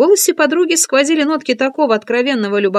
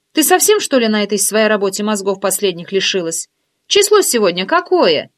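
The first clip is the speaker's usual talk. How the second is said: teasing curiosity, lifted voice; friend's voice; 3 dB louder than usual. Acted. Nosy friend quizzing narrator on phone, lightly raised voice. Oksana scolding.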